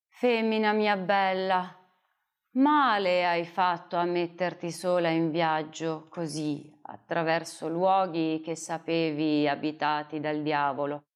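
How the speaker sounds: put-on a kindly old man's mild reproach; hint of an old hermit; gentle old hermit. Old hermit speaks to woman.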